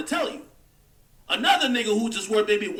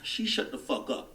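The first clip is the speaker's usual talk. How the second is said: whispered aside; 7 dB quieter than usual. Acted. Aside after offering the Maybach.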